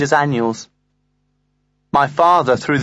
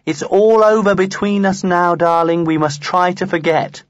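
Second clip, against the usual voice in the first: yucky voice; 3 semitones higher than usual. Retold or imitated. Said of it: "She was using a yucky voice".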